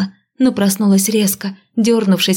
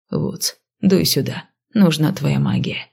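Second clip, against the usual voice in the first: low gruff man voice; 4 semitones lower than usual. Acted. Crayton calls his partner.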